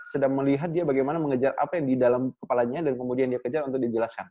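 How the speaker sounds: quick, rushed run of explanation; rapid visual-type speech. Shown as a demonstration. Coach showing learners how visual people talk, rapid-fire. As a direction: talk fast, hurrying to get it all out. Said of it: "saya bicara dengan cepat".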